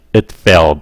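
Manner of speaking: "It failed" with the final d swallowed, breath held; held breath at the end. Shown as a demonstration. Teacher demonstrating the unreleased d for students. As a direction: stop the air on the d of "It failed". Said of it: "Nín hơi lại".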